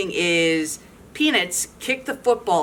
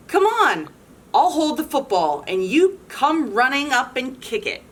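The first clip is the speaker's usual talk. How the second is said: high sing-song coaxing; lightly sing-song coaxing; 5 semitones higher than usual. Acted. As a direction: coax him like a sweet trap. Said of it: "calls Lucy in a sing-song voice".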